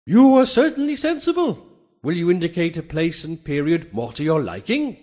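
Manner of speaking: the steed of the muses, bright approval then a quick question; Pegasus approving. Acted. Pegasus answers the narrator.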